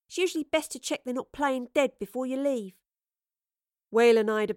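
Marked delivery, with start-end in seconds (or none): 0.1-2.8 bright, higher cheeky voice; chirpy young rogue; cheeky young woman. A narrator's reading. Astrid continues brightly.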